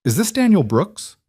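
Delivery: businesslike warmth, lifting high on the question; a polite, professional phone inquiry; professional but warm. A narrator's reading. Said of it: "professional but warm".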